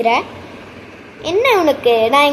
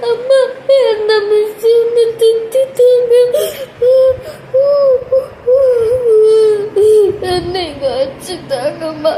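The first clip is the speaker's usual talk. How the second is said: fake whining; 6 semitones higher, slower than usual. Daughter complaining to mother about the teacher, mock whining. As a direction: play the wronged child. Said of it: "acting தான்".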